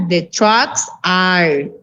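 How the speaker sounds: very slow, word by word English; teacher modelling the plural; very slow model phrase. Shown as a demonstration. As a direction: dictate it to the class.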